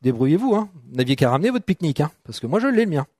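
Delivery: low, quiet mock-selfish mutter of a boy keeping his lunch; a hint of a selfish teen brushing off the crowd; selfish inner voice. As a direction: lightly play a stingy young man hoarding his bread. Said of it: "et moi je me dis".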